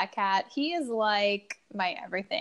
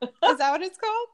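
English with a Spanish accent; 7 semitones higher, faster than usual. Real, not acted. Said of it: "your Spanish accent".

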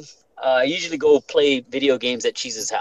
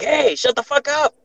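retold scream; 12 semitones higher than usual. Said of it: "I screamed at her".

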